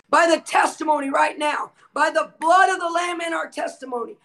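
full-force preaching, shouting the decrees over and over; a healing preacher commanding demons out, every line hammered home; fiery preaching. Acted. Preacher commanding healing over livestream viewers, fiery shouted decrees.

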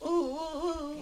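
high, drawn-out falsetto whoops; slow high-pitched pop-star oohs; playful falsetto singer impersonation. Pretend. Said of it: "You sound like a pop star".

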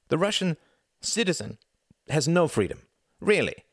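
halting, high-pitched protest. A narrator's reading. Tom arguing for Russian freedom, protesting. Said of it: "protested Tom".

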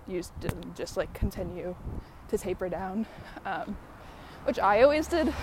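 breathless from walking uphill; out of breath. Real, not acted. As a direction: talk while climbing, winded. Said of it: "I'm out of breath going uphill".

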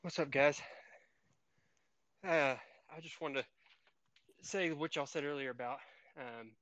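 breathless mid-workout, out of breath; panting between phrases, out of breath. Real, not acted. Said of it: "Sorry, I'm out of breath".

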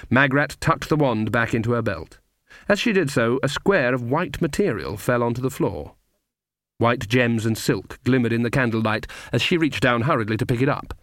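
usual speaking voice

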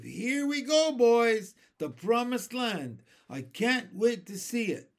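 high, loud cries of excitement; excited shouts. A narrator's reading. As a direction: shout it out, thrilled to set off. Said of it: "Amidst mounting excitement and shouts of".

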